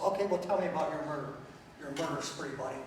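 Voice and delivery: dry sarcastic brush-off; mock the claim with a quick, dry jab. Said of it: "A little sarcasm there".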